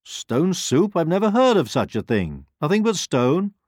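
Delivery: high, loud pig voice; astonished pig. A narrator's reading. Pig hearing of stone soup from the hen, astonished. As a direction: exclaim it in high-pitched disbelief.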